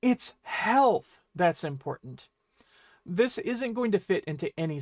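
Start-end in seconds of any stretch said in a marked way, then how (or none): 0.0-2.3 "health" punched, the rest easing off; stress on HEALTH. Shown as a demonstration. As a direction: lean slowly on "health". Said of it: "puts a much stronger emphasis on that noun".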